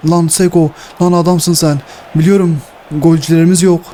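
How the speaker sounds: high, eager praise for the striker; thrilled shout of praise; excited cheer. Real, not acted. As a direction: cheer Seko on, voice up.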